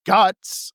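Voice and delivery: pause, then punch "Guts"; dramatic pause before Guts. Retold or imitated. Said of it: "he just pauses and says".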